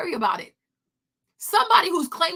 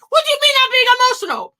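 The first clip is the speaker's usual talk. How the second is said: higher, louder, fast affronted retort; indignant shout; 8 semitones higher, 8 dB louder, faster than usual. Retold or imitated. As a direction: snap it back, offended.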